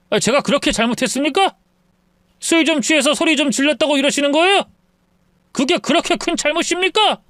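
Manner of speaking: put-on a drunk man hollering at his in-laws' door; drunk son-in-law. (술 취한 사위의 높은 외침)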